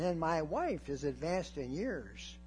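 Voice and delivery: slow, lightly voiced old man; doubting old man. Old Zechariah questioning the angel, slow and lightly aged. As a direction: plead slowly like an aged priest.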